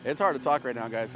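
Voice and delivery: winded, gasping between words; out of breath. Real, not acted. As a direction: talk while short of breath. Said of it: "I'm out of breath".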